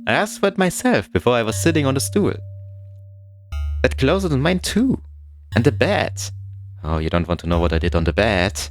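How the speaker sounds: spiral from pleading into frantic screaming; building to screaming. Acted. Claiming his desk and bed from the stranger, building to a scream. Defending his room, escalating.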